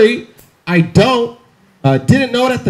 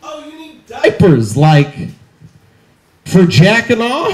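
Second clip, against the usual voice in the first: lightly mock an over-eager employee; slow down into a suggestive rising question; kinky store employee; slower than usual. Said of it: "It's a kinky Safeway employee".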